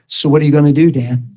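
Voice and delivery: a hint of a calm, steady God. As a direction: ask it like God looking down from the throne. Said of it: "I'd always hear this".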